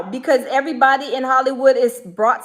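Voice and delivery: loud and indignant, pressing the point hard; outraged loud. Real, not acted. Vlogger reacting to the clip for viewers, loud and indignant.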